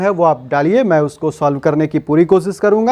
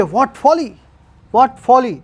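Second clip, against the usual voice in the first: higher, mock exasperated exclamation; 6 semitones higher, much slower than usual. Shown as a demonstration. Teacher demonstrates to students an exclamation of scorn. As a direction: scoff at the foolishness. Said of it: "ये आश्चर्य दिखा रहा है".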